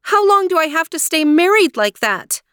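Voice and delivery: high, alarmed princess; dismayed question. A narrator's reading. Aurora asking her aunts about marriage, high and dismayed. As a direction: ask it in rising dismay.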